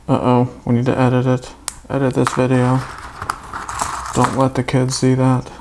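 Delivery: even, mechanical robot voice. Acted. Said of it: "Why am I talking like a robot now?".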